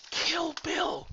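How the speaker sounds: high, loud exclamation; loud punchline shout. Acted. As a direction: yell it like a battle cry.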